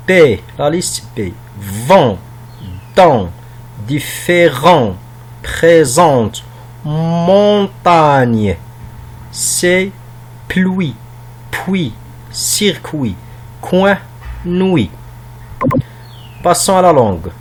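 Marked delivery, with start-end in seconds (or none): 1.6-8.6 separated model words with firm falling endings; careful pronunciation. Shown as a demonstration. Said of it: "de prononcer bien ces mots". 10.5-14.9 word-by-word list reading with pauses between; careful pronunciation. Shown as a demonstration. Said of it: "de prononcer bien ces mots".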